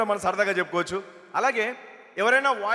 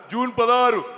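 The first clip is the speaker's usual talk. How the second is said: lightly voiced politician; వి Hanumantharao impression; 2 semitones higher, 4 dB louder, slower than usual. Politician repeating his birthday to the guest, mimicked. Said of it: "Hanumantharao గారి bit ఒకటి చెప్పేసి".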